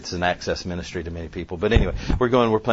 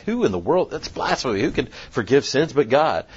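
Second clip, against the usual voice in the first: higher-pitched, affronted disbelief; mock indignation; 5 semitones higher than usual. Law teachers objecting to forgiven sins, mock indignant. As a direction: act scandalised at the claim.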